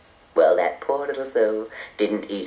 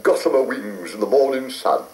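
poetic. A narrator's reading. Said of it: "all poetic".

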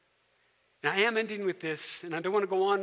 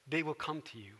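calm persistence; 4 semitones lower, 6 dB quieter than usual. Retold or imitated. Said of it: "calmly persists".

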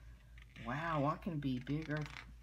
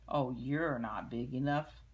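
loud scornful taunt; ladybug voice; 2 semitones lower, 6 dB louder than usual. Acted. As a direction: sneer it down at him. Grouchy ladybug taunts gorilla.

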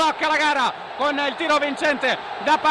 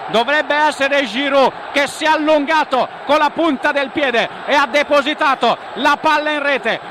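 louder, fired-up recap; excited goal recap; 5 dB louder than usual. Acted. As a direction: keep the energy after the goal. (riepilogo concitato)

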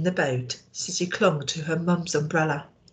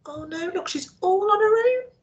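hushed aside. Real, not acted. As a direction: whisper it, worried. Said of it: "aside to children, hushed".

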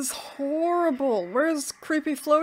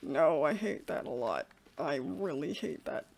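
much lower and softer, muttered dread; 8 semitones lower, 13 dB quieter than usual. Real, not acted. Player hiding from the ghost, low scared mutter. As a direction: sink into quiet horror.

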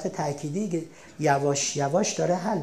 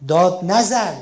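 louder snapped don't shout; sharp scolding; 7 dB louder, slower than usual. Shown as a demonstration. Teacher contrasting phrases, louder scolding take. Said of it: "چی بگیم به جاش؟".

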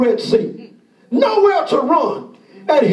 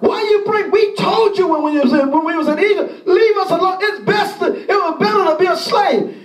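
mock complaint; 3 semitones higher than usual. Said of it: "He said".

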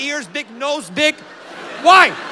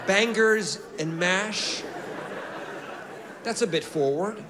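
mock-scandalised reply; 8 semitones lower, 8 dB quieter than usual. Mock-shocked reply to steward's offer.

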